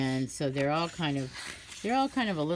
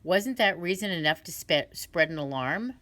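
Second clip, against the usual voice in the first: crow's excuse; 3 semitones higher, 4 dB louder than usual. Acted. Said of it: "He said".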